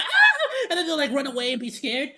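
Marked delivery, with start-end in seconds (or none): 0.0-0.7 very high, loud laughing shriek; mock scream. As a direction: shriek like someone scared off, half laughing. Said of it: "And then he'll be like".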